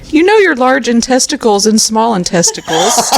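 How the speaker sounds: put-on giggling while quoting the boy; laughing through a kid quote. Telling friends a kid's line, laughing.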